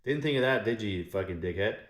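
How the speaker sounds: shouted mockery at a dead king; taunting. Real, not acted. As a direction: jeer at Cyrus. Mocking Cyrus loudly.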